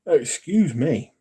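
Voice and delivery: talking through a real yawn; words stretched by a yawn; slow, yawny apology. Real, not acted. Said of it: "I'm yawning now".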